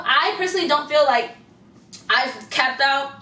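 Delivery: talking while chewing gum; words round a wad of gum. Real, not acted. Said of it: "Ooh, I'm sorry, I'm chewing gum".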